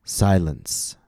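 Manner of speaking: "Silence" with a long first vowel, then falling; stress on first syllable. Shown as a demonstration. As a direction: lean on the start of "Silence". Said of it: "the first syllable is stressed".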